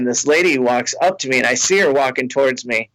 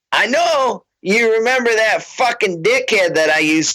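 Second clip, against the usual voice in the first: higher, insistent fan voice; tipsy fan; 7 semitones higher than usual. Retold or imitated. Fan pressing the comic about her ex, higher. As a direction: lean in, sure he knows.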